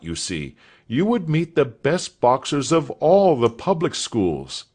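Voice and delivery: a hint of a puzzled schoolmaster; puzzled master. A narrator's reading. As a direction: reason with the boy, a touch bewildered.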